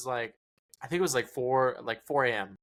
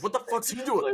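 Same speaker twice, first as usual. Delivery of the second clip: mock shock; 10 semitones higher than usual. Shocked at early call.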